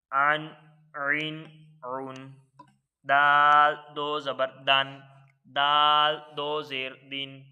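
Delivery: slow, even chant of letter, harakat, sound; Qaida spelling drill. Shown as a demonstration. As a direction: sound it out syllable by syllable for the class. (قاعدہ کی ہجے کی مشق، ٹھہر ٹھہر کر)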